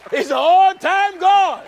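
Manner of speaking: preacher exulting at the climax; preached proclamation. Acted. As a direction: ring it out to the church. Preacher repeats climactic line.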